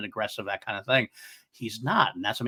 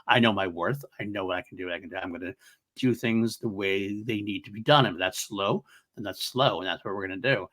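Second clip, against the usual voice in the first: quoting Baylan; 4 semitones lower than usual. Retold or imitated. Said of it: "he lays down that same kind of thing".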